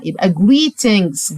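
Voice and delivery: greetings with the final s sounding clearly; plural ending shown. Shown as a demonstration. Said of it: "دي اس الجمع". (greetings بنطق السين في الآخر)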